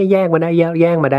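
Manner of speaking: high, put-on crowing gloat through laughter. Retelling someone who grabbed a bag and ran off, imitating someone laughing. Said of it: "เขาก็ไปหัวเราะครับแบบ".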